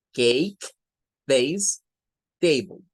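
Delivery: "Cake, vase, table" one by one with long "ey"; model pronunciation. Shown as a demonstration. Teacher showing that A sounds like ey, model pronunciation. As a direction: say each word separately, the A as "ey". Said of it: "la A de esa palabra suena a A".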